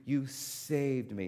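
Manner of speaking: drawn-out grateful "you saved me", said slowly; relieved thanks to the friend who came. Retold or imitated.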